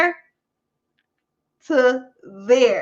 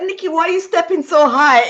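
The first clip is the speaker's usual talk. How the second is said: higher, laughing question; laughing friend; 6 semitones higher than usual. Retold or imitated. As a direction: giggle while asking.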